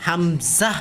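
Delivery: হামজাহ with a rising "zah"; emphatic final zah. Shown as a demonstration. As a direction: hum the m of হামজাহ, then release "zah". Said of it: "ঝাহ উচ্চারণটা হবে".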